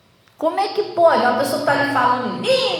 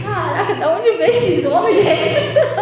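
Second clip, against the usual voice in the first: espanto rindo; 3 semitones higher than usual. Real, not acted.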